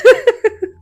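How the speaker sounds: a sudden loud laugh; loud burst of laughter. Real, not acted. Laughing at missing the room picture, a loud burst.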